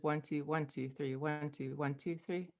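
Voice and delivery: one two, one two three counted in two-three groups; group it two plus three; grouping demo. Shown as a demonstration. Teacher shows how she counts five in her head. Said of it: "saying it like that".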